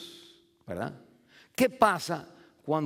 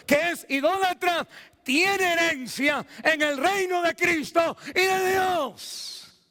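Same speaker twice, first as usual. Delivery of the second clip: fervent preaching; 12 semitones higher, 3 dB louder than usual. Real, not acted. Preaches the verse at full force. (prédica encendida)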